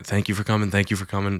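soft, quick polite thanks down a line; rote, polite handshake thank-you; polite preacher. Retold or imitated. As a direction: murmur courteous thanks, imitating a preacher greeting people. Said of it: "very polite".

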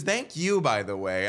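high mock thank-you; hammed-up prim lady thanking; smug thanks. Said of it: "And she goes".

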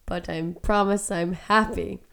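quiet, fading, worn-out voice; voice giving out. Real, not acted. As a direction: speak with a voice that is almost gone. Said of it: "my voice is disappearing".

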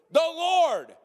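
high, loud flat-out answer; matter-of-fact thief. Pretend. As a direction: state it as if obvious. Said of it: "And you're like".

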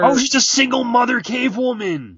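bursting out laughing. Real, not acted. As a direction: laugh through the line. Laughing excited idea.

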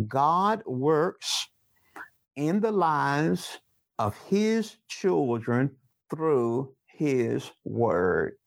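slow, every word spaced out for note-taking; slow dictation. Shown as a demonstration. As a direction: dictate it slowly so they can write it down. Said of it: "Write that down".

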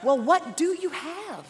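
slow, drawn-out parental question; parent to child. Acted. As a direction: lightly play a parent questioning a bored kid. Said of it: "You would say".

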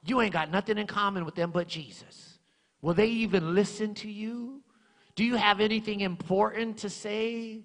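lightly voiced devil needling him; mock devil muttering doubts; devil's whisper. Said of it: "the devil will whisper in my mind".

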